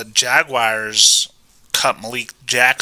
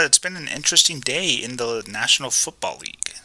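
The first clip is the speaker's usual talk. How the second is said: whispered line. Pretend. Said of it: "same sentence said twice".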